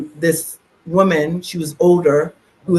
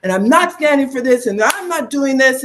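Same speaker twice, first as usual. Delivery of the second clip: higher, raised retelling of fury; retold anger; 5 semitones higher than usual. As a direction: vent it as you tell it. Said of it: "I said to her".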